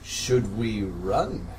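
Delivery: small quiet slow question; timid. Acted. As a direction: ask it quietly, unsure. Timid character asks.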